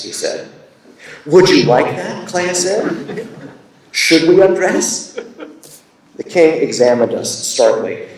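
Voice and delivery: measured, emphatic literary reading; deliberate storytelling, stressing the key words; story narration. A narrator's reading. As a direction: read fiction to an audience with lightly voiced dialogue. Reads own story aloud.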